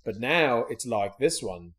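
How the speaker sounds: lightly Australian product pitch; mock Australian. Inventor showing old and new trucks, mock Australian accent. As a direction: present it with put-on Australian vowels. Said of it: "Apparently Shark Tank Australia".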